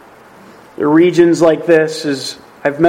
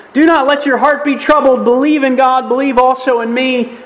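higher-pitched, earnest reassurance; encouraging; 8 semitones higher than usual. Acted. Jesus to the disciples as he leaves, encouraging. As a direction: urge them on in a lifted voice. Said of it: "Jesus encouraging the disciples".

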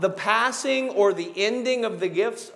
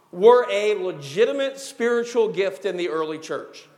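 "were" leaned on at the start; stress on "were". Real, not acted. Preacher teaching about the early church, stress on "were". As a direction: put firm emphasis on the word "were". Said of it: "the emphasis on the word".

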